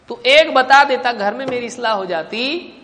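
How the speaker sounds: acted grievance, starting high and loud then easing; annoyed reproach. Embarrassed man reproaches his brother for staying silent, annoyed. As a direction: scold as the upset brother would. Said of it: "ناراض ہوگا".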